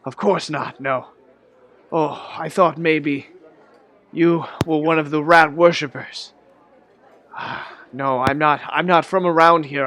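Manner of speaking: put-on a relieved old stranger explaining himself; lightly voiced old man tells his story. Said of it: "He's like".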